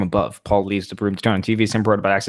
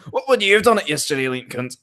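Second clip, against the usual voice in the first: put-on higher, rough stab at an Australian accent; attempted Australian accent; 8 semitones higher, 3 dB louder than usual. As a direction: have a go at sounding Australian. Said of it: "I need to do it in Australian accent".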